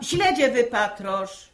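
slow and loud command; sharp order. Real, not acted. Mother to idle daughter, a slow sharp order. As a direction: snap an order at her.

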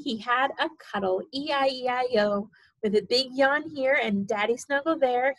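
sing-song storybook reading; reading to a toddler. Acted. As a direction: read it bouncy for a baby. Sing-song reading, snoring end.

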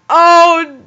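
high loud cry then laughter; shocked outburst. Real, not acted. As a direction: react in disbelief and burst out laughing. Shocked reaction to song.

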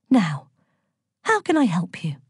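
sweetly helpful question; light, obliging goddess voice. A narrator's reading. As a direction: ask with sugary politeness. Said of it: "Aphrodite asked Millicent sweetly".

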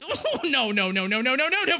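real gamer panic, pitched high; alarmed outburst. Real, not acted. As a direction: blurt it in mounting alarm as the attack lands. Opponent's big attack is coming.

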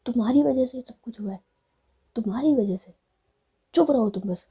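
loud, emphatic accusation; acted angry outburst in short bursts; angry blaming. Jiya angrily blames and silences Rui.

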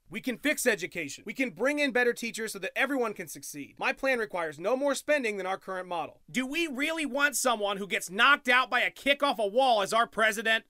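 low, soft campaign ad read; political ad voice. Acted. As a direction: sell it like an attack ad. Political ad parody.

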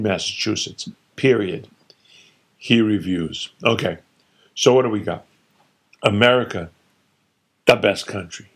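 a lightly voiced father holding court, dismissive; opinionated father. Father lecturing his son, lightly voiced and dismissive. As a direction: scoff at every state like a know-it-all dad. Father rants about Massachusetts.

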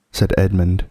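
plain reading voice

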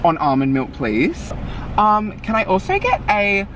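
slow, clear drive-through order; careful order. Real, not acted. Friend ordering into the drive-through speaker slowly and clearly.

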